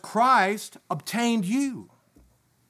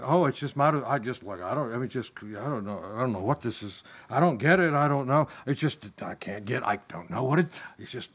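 low, mumbled and lost, a frustrated believer muttering; a lightly voiced discouraged reader grumbling under his breath; mumbling confused reader; 5 semitones lower than usual. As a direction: sound baffled and ready to give up on reading. Voicing a confused Bible reader.

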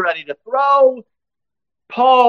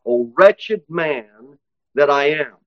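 warrior's cry; 3 semitones lower, slower than usual. Acted. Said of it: "Paul as a Christian warrior crying out".

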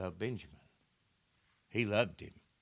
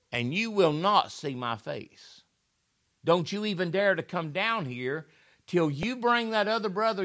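stern, higher pitched threat from the ruler; speaking harshly; 5 semitones higher than usual. Retold or imitated. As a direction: lay down the law to the brothers, hard and raised. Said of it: "And he speaks hard, harshly to them".

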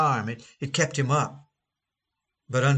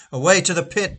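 loud exorcist's cry; 4 semitones higher, 5 dB louder than usual. Retold or imitated. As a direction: hurl the command at the demon. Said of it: "they cried".

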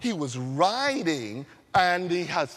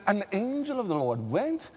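scripture reading. Shown as a demonstration. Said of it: "let's give it the Bible way".

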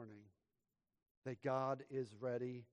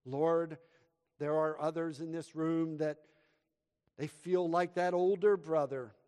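slow, fervent pastoral prayer with louder calls to the Lord; 6 dB louder than usual. Real, not acted. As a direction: pray it earnestly over the room. Leads a prayer.

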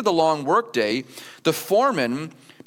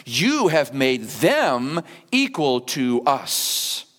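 superior complaint; 3 semitones lower, much slower than usual. Retold or imitated. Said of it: "the complaint is this".

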